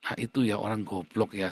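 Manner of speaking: usual speaking voice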